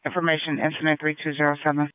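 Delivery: crackly police radio transmission; radio static bursts. Real, not acted. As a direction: dispatcher over a scanner. Police radio dispatch call.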